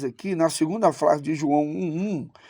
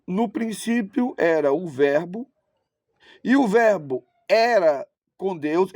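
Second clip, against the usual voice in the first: slow reading, weight on "era"; emphatic translation reading. Shown as a demonstration. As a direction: set "era" apart with deliberate stress. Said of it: "eu tô querendo enfatizar".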